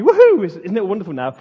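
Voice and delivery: bright, loud mock cheer as a joke; hammed-up happy woohoo. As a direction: sell the fake cheerful party mood. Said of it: "kind of like a happy".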